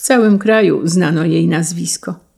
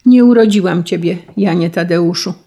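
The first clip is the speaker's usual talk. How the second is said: ordinary delivery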